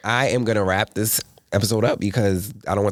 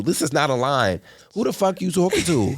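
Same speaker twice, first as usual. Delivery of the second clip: retold yelling; 6 semitones higher than usual. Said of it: "You yelling at them like".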